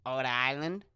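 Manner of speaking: "Ode Island" as a question, no initial R; R dropped. Shown as a demonstration. Trying out how locals would say it, R dropped from "Ode Island". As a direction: test "Ode Island" with the R missing. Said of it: "you wouldn't pronounce the R".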